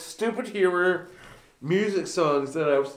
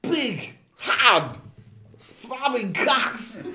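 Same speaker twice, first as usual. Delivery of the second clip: high, giggling lyric read; trying to read straight but breaking up; laughing through the reading; 12 semitones higher, 4 dB louder, much slower than usual. Real, not acted. Reading silly lyrics to friends, cracking up laughing.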